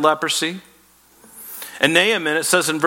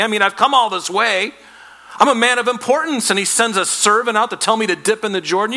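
raised, offended outburst of a proud commander; indignant Naaman; 5 semitones higher than usual. Retold or imitated. To the prophet's servant, Naaman storms off with a raised, indignant voice. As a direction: huff about how he deserves better. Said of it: "Naaman became furious".

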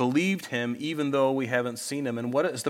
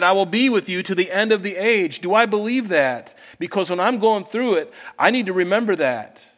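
forceful preaching; 6 semitones higher, 6 dB louder than usual. Acted. Preacher pressing the promise home.

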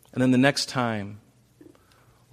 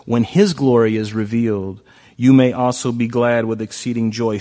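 louder exultant reread; 7 dB louder than usual. Acted. Exultant repeat of verse.

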